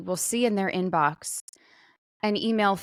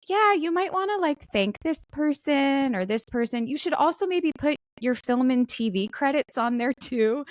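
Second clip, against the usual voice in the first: imitating agent; 6 semitones higher than usual. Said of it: "And then he was like".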